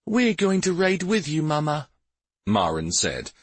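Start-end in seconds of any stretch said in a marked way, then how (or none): 0.1-1.9 put-on high-pitched child character; child's voice. A narrator's reading. Child telling Mama they will ride along, childlike.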